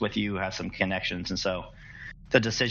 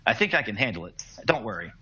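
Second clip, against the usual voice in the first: stammering crewman; 3 semitones higher than usual. Acted. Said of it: "The crew member stammers".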